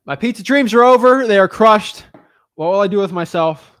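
loud, high, melodramatic lament; mock despair. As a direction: wail it like a hammed-up tragedy. Mock despair over crushed pizza dreams.

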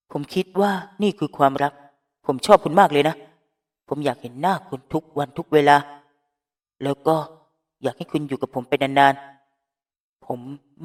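tender confession. Acted. Finneas confesses his love to Phrom, tender. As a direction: gently pour out your heart.

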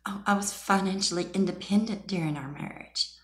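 high breathy mocking whisper; mocking impression. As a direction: mimic her sweetly to ridicule. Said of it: "a little statement she's loved to say".

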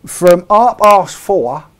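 loud, slow mock Cockney, h-dropping "half past four"; hammed-up London accent for southern viewers; Cockney announcement, played for laughs; put-on Cockney. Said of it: "I'm talking like this so Bob Oldkit can understand me".

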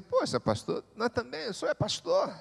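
voicing a doubtful listener. Listener objects to the pastor, lightly mimicked doubt. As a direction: play the listener who objects. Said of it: "talvez você diga".

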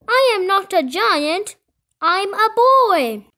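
put-on high, emphatic boy's protest; shouted protest. A narrator's reading. Kipper tells villagers he's a boy, shouting. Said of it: "shouted Kipper".

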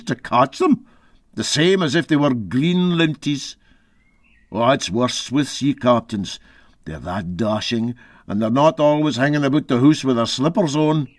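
lightly voiced gruff Scots skipper, hesitant; a hint of an old Scots sea captain brushing it off. Captain shrugging off the narrator's question, lightly voiced Scots.

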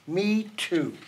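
small echoing voice, lightly put on; a hint of a little joey chiming in; young kangaroo. A narrator's reading. Young kangaroo backs up mother, lightly childlike. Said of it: "the young kangaroo in her pouch said".

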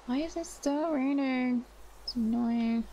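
complaining. Real, not acted. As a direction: complain about a petty annoyance. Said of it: "literally just complain about everything".

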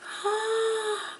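long, high gasp; real gasp of joy; delighted gasp. Real, not acted. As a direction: gasp high in thrilled amazement. Thrilled by the Pygmy Puff.

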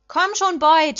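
high, loud urging from the stands; cheering scream. A narrator's reading. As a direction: yell your player on. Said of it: "schrie ich".

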